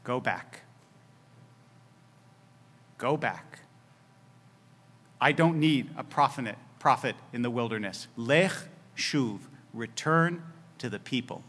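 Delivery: a hushed, still small voice; thin quiet voice. Acted. God sends Elijah back to the people, very soft and low. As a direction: Go back said very soft and low, barely above a breath. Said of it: "in that thin voice".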